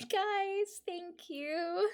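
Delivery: high, tearful thanks; fighting back tears. Real, not acted. Streamer thanking viewers for the goal, choked up. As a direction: thank them while holding back a cry. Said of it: "I'm not gonna cry on stream".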